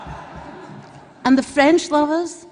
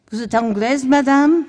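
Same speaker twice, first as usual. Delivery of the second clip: lightly mimicked French questioner, louder on the last word; 5 dB louder than usual. French local asks the visitor if she's English, mimicked questioning tone. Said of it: "with that sort of sound".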